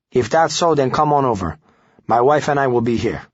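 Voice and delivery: put-on a grudging invitation in a Hispanic accent. Guzman lets the reporter come over, Hispanic accent. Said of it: "A man with a thick Hispanic accent answered".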